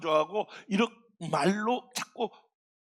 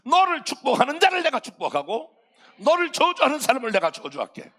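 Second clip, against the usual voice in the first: 크고 힘찬 하나님의 약속; 아브라함에게 단단히 다짐하는 하나님; God promising; 4 semitones higher, 6 dB louder than usual. Acted. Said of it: "하나님이 뭐라고 했냐면". (하나님이 아브라함에게 크게 약속하며)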